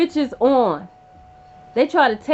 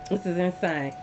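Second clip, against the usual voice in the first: hushed disbelief; 6 semitones lower, 6 dB quieter than usual. Real, not acted. Repeating the phrase in disbelief.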